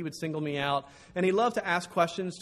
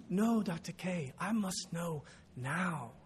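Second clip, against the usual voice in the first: put-on slow, soft, insistent Ugandan-accented plea; young Ugandan accent; 5 dB quieter, much slower than usual. Student insisting on an answer now, Ugandan accent. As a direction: imitate a Ugandan student, spacing out each word. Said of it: "I'm gonna have to do young Ugandan".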